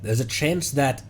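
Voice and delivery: ordinary delivery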